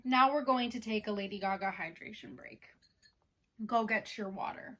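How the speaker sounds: ordinary talk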